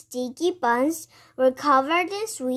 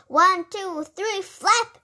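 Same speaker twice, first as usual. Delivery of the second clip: higher-pitched storybook count-off; called out; 6 semitones higher than usual. A narrator's reading. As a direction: call the count, rising to the cue. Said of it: "Arthur called".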